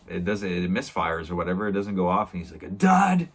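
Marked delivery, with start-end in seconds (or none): 2.6-3.3 sudden high yelled outburst; retold yell. Henriksen yelling when the gun misfires, high yelled outburst. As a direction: yell it out, much higher and a little louder. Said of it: "Starts yelling".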